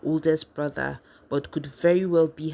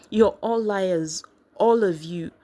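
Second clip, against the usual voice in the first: angry outburst; 4 semitones higher, 4 dB louder than usual. Acted. Furious outburst at family.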